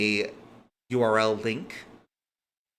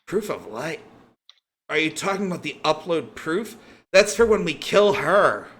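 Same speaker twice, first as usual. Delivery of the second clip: higher, climbing to a loud finish; incredulous correction; 6 semitones higher, 5 dB louder than usual. Acted. Hitman corrects his captor, incredulous and getting louder. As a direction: build from baffled question to emphatic reveal.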